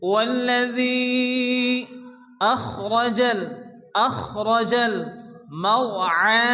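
والذي held four alif before أخرج; four-beat madd. Shown as a demonstration. Teacher showing students the four-beat separated madd. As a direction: stretch the ذي of والذي four beats long. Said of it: "চার আلিফ পরিমাণ টেনে পড়তে হবে".

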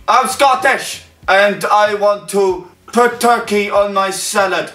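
high-pitched mock Scottish accent. Challenge turn about turkey on salad, high mock Scottish accent. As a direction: have an amateur go at Scottish. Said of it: "My accent is Scottish".

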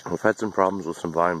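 talking with mouth full; chewing through the words; messy loud eating. Real, not acted. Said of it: "Pardon me while I talk with my mouth full".

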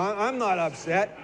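slow, tight "I'm not upset"; strained denial. Shown as a demonstration. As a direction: say it through held-in upset. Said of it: "the words say".

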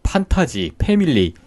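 판타지 and 패밀리 with a Korean ㅍ in place of F; Korean-style P for F. Shown as a demonstration. Korean teacher showing how F words get written in Hangul, Koreanized P sound. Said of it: "피읍으로 표현을 하기 때문에".

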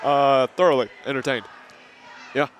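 lightly put-on refined voice; a hint of a stuffy gentleman; affected posh voice. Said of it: "can you please just talk normally".

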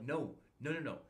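mock-furious, pressing every line; retold angry rant. To the staff who hijacked his recruit, heated and loud.

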